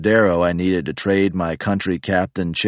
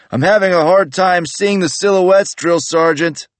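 nervous recruit; 13 semitones higher, 6 dB louder than usual. Retold or imitated. Recruit answering yelling sergeant.

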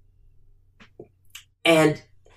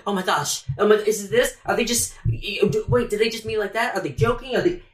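anxious overthinking; 5 semitones higher than usual. Acted. Acting out anxious overthinking of a remark.

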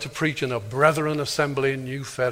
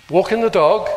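voicing the milkman; 5 semitones higher, 6 dB louder than usual. Milkman Frank questions the speaker.

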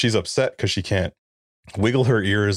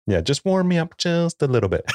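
hammed-up sigh of comfort, pitched higher; mock pleasure; 9 semitones higher than usual. Teasing the host about the heat gun, mock pleasure. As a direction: pretend the heat gun feels lovely.

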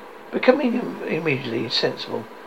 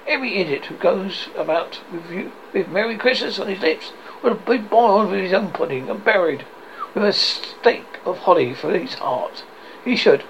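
mildly indignant tirade, somewhat raised pitch; 5 semitones higher than usual. Acted. Scrooge condemns every Christmas idiot, mild indignation. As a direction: carry on the rant, a touch heated. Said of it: "said Scrooge indignantly".

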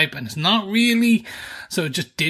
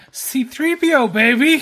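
gleeful, high-pitched cheer; excited; 8 semitones higher, 4 dB louder, slower than usual. Real, not acted. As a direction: shout the name like a fan. Hyping a favourite character.

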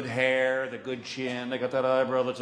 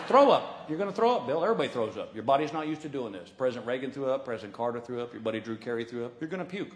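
blunt medic; 4 semitones lower, faster than usual. Retold or imitated. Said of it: "He goes".

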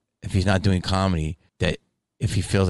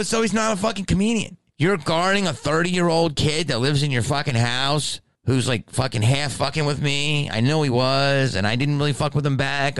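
high, indignant scolding; retold argument, pitch easing down as it runs; exasperated rant; 5 semitones higher than usual. Scolding a mother guarding her adult son, exasperated.

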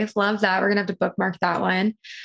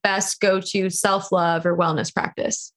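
ordinary delivery

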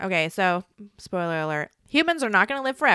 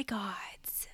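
whispered ending; 15 dB quieter than usual. Real, not acted. Reading AI's ominous answer.

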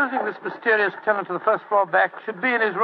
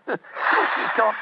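laughing; 3 semitones higher than usual. Real, not acted. Laughing at the disguise.

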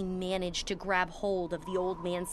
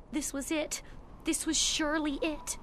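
despairing narration; 9 semitones higher than usual. A narrator's reading. Boy's despair after beginning to cry.

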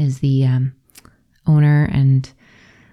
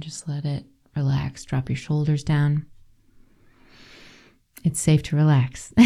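guided relaxation. Acted. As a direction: talk the listeners gently into their bodies.

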